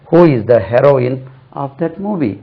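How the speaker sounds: heroine said "HEH-ro-in", short e; slow question, heroine opening on "heh"; correct heroine. Shown as a demonstration. Teacher contrasts it with hero, short-e pronunciation. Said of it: "ரெண்டுமே ஒரே உச்சரிப்பு தான்".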